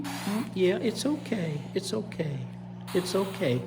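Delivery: soft, gentle reassurance; calm the animal with soft repeats; soothing. Real, not acted. Handler settling a hissing baby alligator, soft and reassuring.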